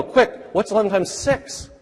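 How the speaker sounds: quick-fire question. Retold or imitated. Teacher speeding up the quiz.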